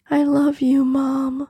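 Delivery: high, whispered, a touch of tears; sobbing. A narrator's reading. Daughter reunited with her dead mother, mild sobbing whisper. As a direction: choke it out through mild sobs. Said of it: "Grace sobbed".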